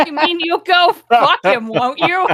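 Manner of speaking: loud, high jealous accusation; angry shout. Acted. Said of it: "so she shouts this angrily".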